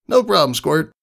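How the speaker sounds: high, affectionate big-sister tone; tomboy voice. Acted. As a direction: brush off thanks with a nickname. Rainbow Dash voiced.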